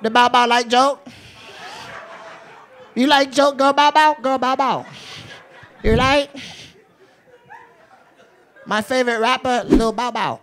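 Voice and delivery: high-pitched mock Asian dealer accent. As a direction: advise the player in a comic Asian dealer accent. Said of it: "I perfected that voice".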